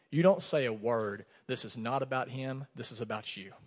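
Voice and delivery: calm rebuke from above, dropping away at the end; voice of God. Retold or imitated. God speaks to him.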